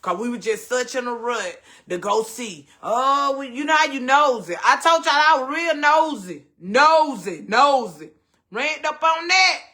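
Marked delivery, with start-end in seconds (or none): 2.8-9.6 excited nosy. Real, not acted. Excitedly admitting her nosiness.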